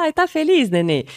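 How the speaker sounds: put-on high, loud cooing to a baby; baby talk. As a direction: coo it brightly at the smiling baby. (voz de falar com bebê, bem aguda e alta)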